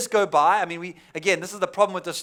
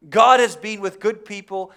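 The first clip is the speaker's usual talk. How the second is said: preaching emphasis; 8 dB louder than usual. Real, not acted. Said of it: "preacher proclaims the truth".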